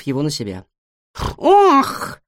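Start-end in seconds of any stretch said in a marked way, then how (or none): 1.4-2.2 grunted oh. A narrator's reading. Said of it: "хрюкнула она".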